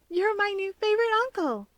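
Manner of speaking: put-on child returning the joy; cried out. A narrator's reading. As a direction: shout it back with glee. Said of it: "Hikage cried".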